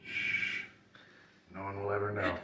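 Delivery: soft secretive hush; hushed whisper. Pretend. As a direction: keep it low and secret. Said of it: "hushing secret".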